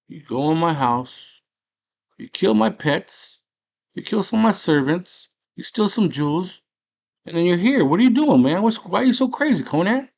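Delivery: builds from a firm voice to a high, loud shout; rising anger. Retold or imitated. Darth Vader confronting Conan, rising into a high angry shout. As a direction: climb into an outraged shout by the end.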